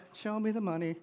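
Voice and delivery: reluctant agent going through the motions; half-hearted. Retold or imitated. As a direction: say "Show me the money" limply, unconvinced. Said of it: "No, no, not like that".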